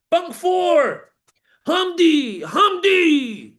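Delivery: high, loud barked call; shouting a name. Retold or imitated. Guard shouting for Sammy across the unit, high and loud.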